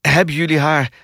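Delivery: high, anxious question; urgent calling out. A narrator's reading. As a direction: blurt it out, breaking off and restarting. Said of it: "riep Verschuur meteen".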